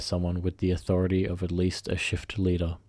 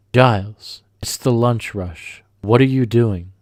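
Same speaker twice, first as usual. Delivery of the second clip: louder, slower, impatient shout; exasperated manager snapping at a slow cook; angry boss yell; 3 semitones higher, 8 dB louder, slower than usual. Retold or imitated. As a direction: bark at him across the busy kitchen. Boss yelling during lunch rush.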